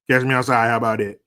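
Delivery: loud playful street challenge; mock tough-guy call-out; loud taunt. Real, not acted. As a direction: dare them to fight.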